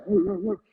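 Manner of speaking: lazy mock woofing; dog barking out of habit, half-hearted. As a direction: woof without meaning it. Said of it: "this half-hearted".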